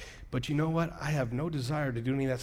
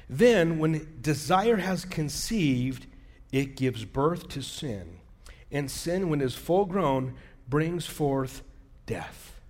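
measured reading that drops at the end; scripture reading; much slower than usual. Acted. Pastor reading a verse to church, measured and deliberate. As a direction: read it out gravely, phrase by phrase.

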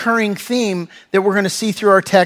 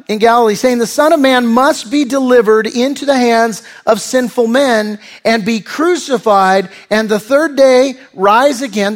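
emphatic, slightly raised reading voice; scripture reading; 3 semitones higher than usual. Acted. Preacher reading the angels' words to the church, emphatic scripture reading. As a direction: read the verse out firmly to a congregation. Reads scripture aloud to congregation.

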